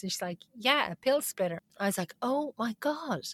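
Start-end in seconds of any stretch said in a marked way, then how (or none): 0.5-1.6 higher-pitched imitation of a puzzled nurse; mildly surprised. Nurse answering a baffled patient, mildly surprised. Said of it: "looking at me a bit surprised". 2.2-3.2 hushed, awestruck retelling; astonished whisper. Retold or imitated. Patient learning that pill splitters exist, astonished whisper.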